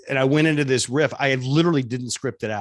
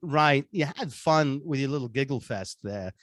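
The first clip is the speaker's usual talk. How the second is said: Walken-like threat. Acted. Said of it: "And he's like".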